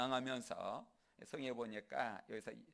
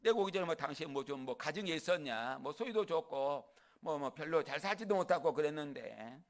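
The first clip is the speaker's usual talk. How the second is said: raised, challenging retort; Jacob, emboldened; 3 semitones higher, 4 dB louder than usual. Acted. Jacob talking back to a weakened Laban, emboldened. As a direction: press the questions home with confidence. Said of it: "당당해져가지고".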